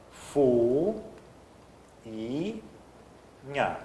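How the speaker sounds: "Fu, i, nha" with each syllable held and separated by a long pause. Shown as a demonstration. Teacher showing the class the i-u rule, syllable by syllable. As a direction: stretch out "Fu", "i", "nha" one at a time. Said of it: "a regra do i do u".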